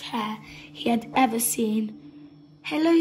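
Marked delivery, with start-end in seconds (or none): 2.7-3.0 raised, louder hello; bright greeting. A narrator's reading. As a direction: call up cheerfully. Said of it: "said Kitty".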